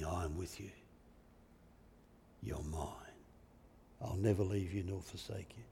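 low, very soft comforting voice; hushed, intimate promise from God; tender assurance. Acted. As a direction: comfort him softly, as if with a lullaby. God as though singing to Elijah.

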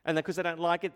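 usual speaking voice

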